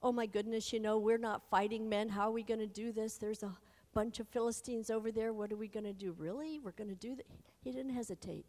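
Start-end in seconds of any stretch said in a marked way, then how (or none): 0.0-7.3 mock panicky worry. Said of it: "You didn't say".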